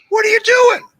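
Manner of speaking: shouting at a teammate gone wild; shouted question. Retold or imitated. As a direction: yell it at a rogue teammate. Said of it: "I go".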